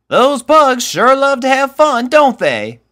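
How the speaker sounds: high, loud cheerful country voice; a breezy, carefree remark; Applejack. A narrator's reading.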